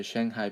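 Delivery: "Shanghai" with a short a as in hang; anglicized "Shanghai", toneless; tolerated English pronunciation. Shown as a demonstration. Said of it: "I guess you could say".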